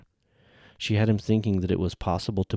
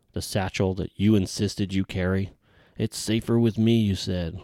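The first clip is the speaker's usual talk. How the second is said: angry tirade. Acted. Commander berates the satchel loser.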